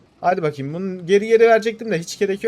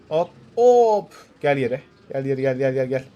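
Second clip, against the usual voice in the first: calling out; 5 dB louder, slower than usual. Real, not acted. Calling out to machine.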